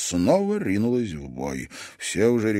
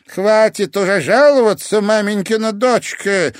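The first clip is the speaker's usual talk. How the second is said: much higher, louder stern rebuke; stern sensei; 12 semitones higher, 9 dB louder than usual. A narrator's reading. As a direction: scold the weakling hard. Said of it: "сурово сказал Канто".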